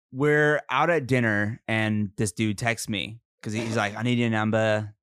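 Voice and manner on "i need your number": casual Aussie guy asking; Australian accent. Acted. Pro golfer texting for her number, Australian accent. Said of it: "do a-, an Australian accent".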